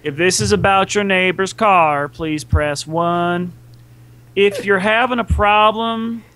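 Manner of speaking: slow, even recorded phone menu; automated phone menu voice. Pretend. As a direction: read it like an automated answering machine. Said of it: "an automated voice answering machine".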